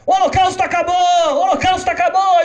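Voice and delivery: put-on a girl dancing and cheering; jubilant little girl. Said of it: "A menina sai dançando". (menina comemorando aos gritos)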